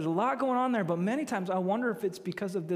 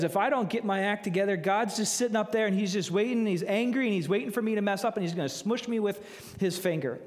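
voicing religion's fear; 2 semitones higher, faster than usual. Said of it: "religion says".

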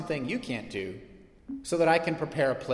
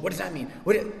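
mock nerd excitement; 3 semitones higher, 4 dB louder than usual. Pastor mimicking movie nerds pausing a trailer, excited. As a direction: play the breathless fan squinting at every frame.

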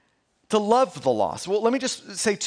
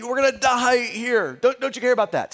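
mock-frightened plea, pitched higher; panicked disciples; 4 semitones higher than usual. Preacher retelling the frightened disciples waking Jesus, mock panic. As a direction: voice the disciples' alarm, lightly. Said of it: "That's them saying".

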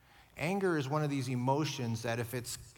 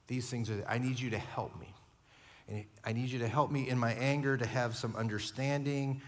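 humble pleading prayer; 3 semitones lower than usual. Shown as a demonstration. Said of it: "we pray differently".

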